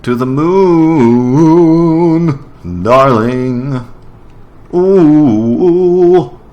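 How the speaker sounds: put-on high, slow, swooning old-film lover; dramatic movie romance voice. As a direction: croon it like a melodramatic film heroine. Hammed-up movie romance scene.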